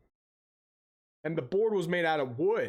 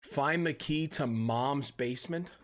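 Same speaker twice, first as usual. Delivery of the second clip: slow, disbelieving rising question; slow incredulous repeat; 3 semitones lower, slower than usual. Real, not acted. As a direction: repeat it like you can't believe it. Streamer repeats game objective incredulously.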